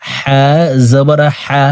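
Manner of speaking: হা with the h made in the middle of the throat. Shown as a demonstration. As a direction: slowly demonstrate হা from the mid-throat. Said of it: "হলকের মধ্যখান থেকে পড়ব". (হলকের মধ্যখান থেকে হা উচ্চারণ)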